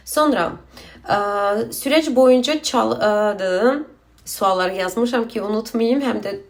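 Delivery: Azerbaijani speaker struggling through Turkish; halting Turkish with Azerbaijani accent; broken Turkish, foreign accent. Real, not acted. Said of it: "Türkçem çok kötü yani".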